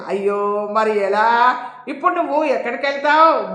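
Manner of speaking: worried friend, lightly acted; dismayed, anxious questioning; narrated distress. A narrator's reading. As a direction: ask with pained concern. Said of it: "బాధపడుతూ అడిగింది సరోజ".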